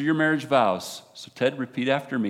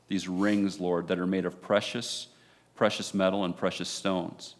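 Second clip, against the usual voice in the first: prayer; 2 semitones lower than usual. Real, not acted. Officiant prays over rings.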